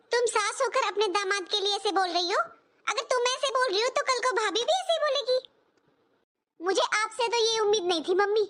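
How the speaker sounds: daughter flares up, voice rising on बोल and बोलेगी; hurt, heated reproach to her mother; angry retort. Acted. Daughter snapping back at mother over her husband, heated and rising. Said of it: "तू बहुत जल्दी भड़क जाती है बेटा".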